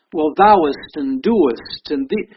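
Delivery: slow, mocking old-fashioned preacher voice; lightly voiced thee-and-thou piety, drawn out; a light parody of archaic church talk, slow; mock King James speech. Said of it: "He didn't talk like that either".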